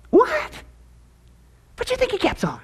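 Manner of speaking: sharp high incredulous what. Real, not acted. Pastor reacts to the aliens' odd method, incredulous. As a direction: jump way up in disbelief. Disbelief at alien channeling logic.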